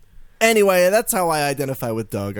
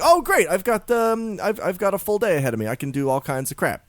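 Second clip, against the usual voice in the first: retold upbeat morning, higher at the start; good mood; 5 semitones higher than usual. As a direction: launch brightly into a great day, then settle. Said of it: "I'm in a good mood".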